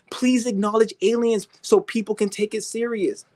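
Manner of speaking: high whiny begging voice; mock begging. Mocking believers begging the government, high whine. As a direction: plead in a pathetic, whiny way. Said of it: "sound like some bitches begging".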